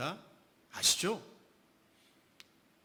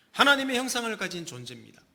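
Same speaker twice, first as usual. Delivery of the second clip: preaching emphasis; 5 semitones higher, 7 dB louder, faster than usual. Real, not acted.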